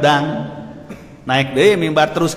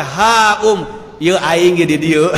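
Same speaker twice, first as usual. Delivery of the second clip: a hint of a blunt villager, louder; coarse Banten reply; 4 dB louder, slower than usual. Prophet answering a shouting Baduy man in coarse speech. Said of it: "cek bahasa kasar mah gitu".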